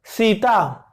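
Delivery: सीता with the tongue touching the teeth, dental s. Shown as a demonstration. Teacher models dental सीता for students, crisp dental s. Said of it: "जिह्वा है वो दंत को छू गई".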